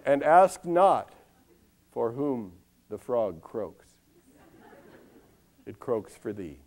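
slow, weighty parody of a poetic pronouncement; mock-solemn. Mock-solemn parody of famous verse.

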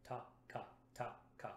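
"Ta, ka, ta, ka" crisp and unvoiced, front then back; double tonguing syllables. Shown as a demonstration. Brass teacher demos double tonguing, crisp alternating syllables. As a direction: tap "Ta, ka" cleanly in alternation. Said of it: "You want a nice clean K".

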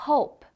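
"hope" ending on gently closed lips; natural "hope", final p barely released; unpopped final p. Shown as a demonstration. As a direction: let the p in "hope" stop without a burst. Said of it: "훨씬 자연스럽죠".

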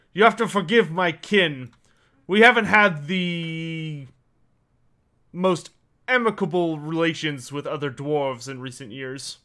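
lightly voiced, measured dwarf; a hint of a dwarf elder, pausing as he explains; dwarf character. Dwarf excuses his kin to a visitor, lightly voiced character.

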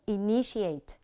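Initiate stressed on NI, falling at the end; i-NI-ti-ate, second syllable stressed in Initiate. Shown as a demonstration. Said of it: "nhấn ở âm tiết thứ hai".

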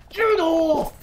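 sharp loud yell, pitched high; high, loud get off; shout. Real, not acted. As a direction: bark it at the thieves. Shoving players off the basket.

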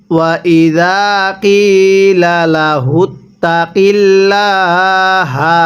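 slow, drawn-out tajweed chant; Quran recitation. Shown as a demonstration. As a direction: recite it slowly, stretching the vowels. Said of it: "কিভাবে পড়ব?". (ধীরে টেনে কুরআন তিলাওয়াত)

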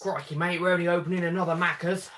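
lightly hammed-up Australian accent, self-consciously bad; a Brit doing a dire Australian accent; mock Australian accent. Joking to his friend on stream in a mock Australian accent. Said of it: "I do apologise for my Australian accent".

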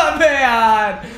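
exasperated groan through laughter; laughing dismay. Real, not acted. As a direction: laugh while lamenting the loss. Laughing at a quick defeat. (हँसते हुए झुंझलाहट)

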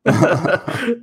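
"Manta" high and bright, short A as in "man". Shown as a demonstration. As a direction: sing out "Manta" with a short A, rising. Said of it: "I have a feeling it's a short A".

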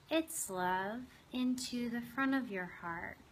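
unhurried meditation guide, long pauses between phrases; guided meditation. Acted. Host guiding listeners to open their hearts to a lizard, guided meditation. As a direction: lead them gently inward, leaving space after each phrase.

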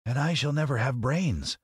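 high-pitched scarecrow voice. Acted. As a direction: lament in a high character voice. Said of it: "added the Scarecrow".

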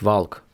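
"валк" з "а", "в" і вимовленим "л"; українська вимова. Shown as a demonstration. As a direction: read walk as "valk", l sounded. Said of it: "Ми би прочитали ці два слова як". ("валк" по-українськи, з "а" та "л")

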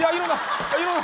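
frantic waking call. Acted. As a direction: yell as if reviving a patient. Reviving crashed computer like patient.

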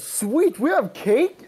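high, loud, delighted squeal; excited Charlie. Acted. Charlie spotting the cake, squealing with delight. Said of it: "Charlie goes".

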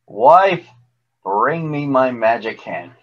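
booming giant command; giant shouting. Acted. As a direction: shout it up to the rafters. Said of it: "Then he shouted".

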